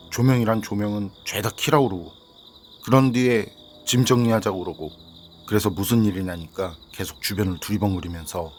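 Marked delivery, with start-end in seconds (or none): none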